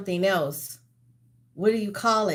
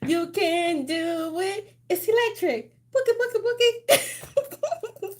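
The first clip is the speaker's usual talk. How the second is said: excited cheering; 11 semitones higher than usual. Acted. Cheering herself through dance.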